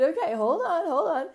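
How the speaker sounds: urgent hold on. Retold or imitated. Healer urgently backpedaling.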